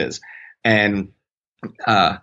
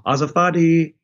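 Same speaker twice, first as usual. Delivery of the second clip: mock yell; 9 semitones higher than usual. Nun calling out at the bathroom door, mock yell. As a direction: call it out higher, imitating the nun's yell. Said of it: "you know, yells".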